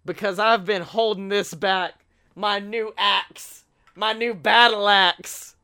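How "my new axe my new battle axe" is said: slow, drawn-out grand announcement; dramatic reveal. Pretend. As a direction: unveil it like a legendary weapon. Dramatic reveal of battle axe.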